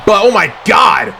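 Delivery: slow, stunned shout of amazement; excited outburst. Real, not acted. Commentator reacting to a huge move, shouting in shock. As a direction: gasp it out as the move lands.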